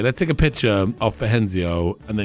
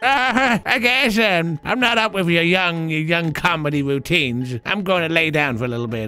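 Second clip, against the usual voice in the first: baffled mom character; 7 semitones higher than usual. Pretend. Mom unsure about her daughter's comedy routines, put-on high voice.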